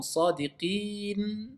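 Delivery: SADIQIN drawn out slowly to a clearly sounded N; audible final noun. Shown as a demonstration. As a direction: stretch the I, then let the N of Sadiqin be heard. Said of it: "il faut qu'on entende".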